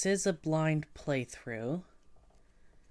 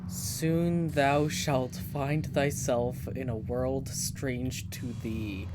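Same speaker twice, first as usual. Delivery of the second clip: solemn god voice; slower than usual. Acted. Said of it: "who speaks in Bible talk".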